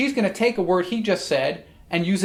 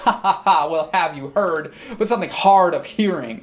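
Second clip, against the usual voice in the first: Kate's retort with a laugh in the voice; amused teasing retort; laughing at him; 3 dB louder than usual. Acted. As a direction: toss it back while chuckling. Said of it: "she might be laughing at him".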